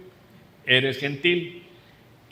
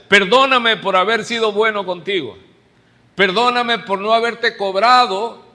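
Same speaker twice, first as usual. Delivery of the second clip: raised, emphatic mock apology; sarcastic apology; 4 semitones higher, 4 dB louder than usual. Preacher paraphrases Paul's barb to the church, sarcastic apology. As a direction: throw the apology like a dart. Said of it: "De sarcasmo".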